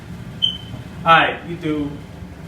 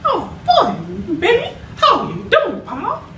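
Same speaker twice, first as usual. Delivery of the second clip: very high giggly cartoon mice greeting; Mickey and Minnie; 4 semitones higher than usual. Mickey greeting Minnie, high and giggly. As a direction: coo and chuckle high.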